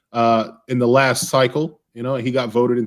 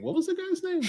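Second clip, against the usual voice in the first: laughing question; 11 dB quieter, faster than usual. Real, not acted. Laughing at forgetting.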